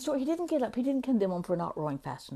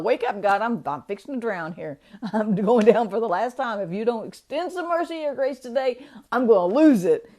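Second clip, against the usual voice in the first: desperate plea; 8 dB louder than usual. Retold or imitated. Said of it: "how my soul was this morning".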